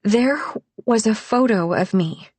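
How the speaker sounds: slow and deliberate. A narrator's reading. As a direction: say it slowly and deliberately. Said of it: "slow and deliberate".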